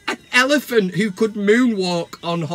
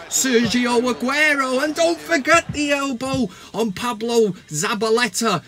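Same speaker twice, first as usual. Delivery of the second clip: higher and louder, a gleeful rant; excited rant; 5 semitones higher, 3 dB louder than usual. Acted. Host listing Fellaini's blunders to fans, gleeful and loud. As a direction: pile on the blunders with mounting glee.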